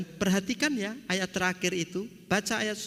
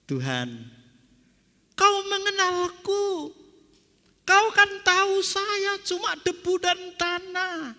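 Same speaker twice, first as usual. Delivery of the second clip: tearful plea; 10 semitones higher than usual. Acted. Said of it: "Lalu Ayub menangis".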